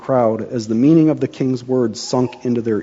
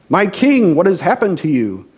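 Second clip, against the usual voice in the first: shocked; 6 semitones higher, 4 dB louder than usual. Acted. Shocked noble sees wounded king.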